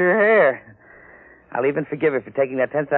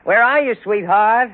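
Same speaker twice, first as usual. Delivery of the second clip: calling out; 7 semitones higher, 5 dB louder, slower than usual. Acted. Calling out to wife at home.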